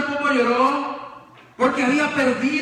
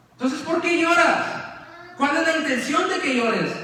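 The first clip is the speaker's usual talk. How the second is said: higher, pointed questioning; accusing reproach; 5 semitones higher than usual. Retold or imitated. Marta y María acusan a Jesús de llorar en falso. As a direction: confront him, half mocking. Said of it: "diría Marta y María".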